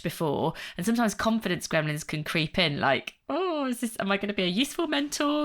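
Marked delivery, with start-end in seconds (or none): 3.3-5.5 higher, worried inner voice, rushing at the end; anxious self-doubt. Retold or imitated. Nervous new mentor doubting herself, higher and anxious.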